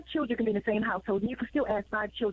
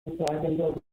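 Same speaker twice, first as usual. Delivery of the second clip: on speakerphone; 2 semitones lower than usual. Real, not acted. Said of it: "sound like you're on speakerphone".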